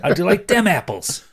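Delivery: put-on Boston accent. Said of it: "Matt Damon with a Boston accent".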